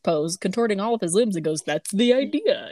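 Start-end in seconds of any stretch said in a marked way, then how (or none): 1.6-2.7 a light hint of a slow vampire voice; slowly and a little menacingly, a half-hearted vampire; terrifying vampire voice. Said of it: "in, like, a terrifying vampire voice".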